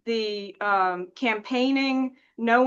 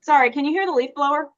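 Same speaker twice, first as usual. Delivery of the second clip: yelling over leaf blower; 3 semitones higher, 5 dB louder, faster than usual. Real, not acted. Leaf blower running nearby.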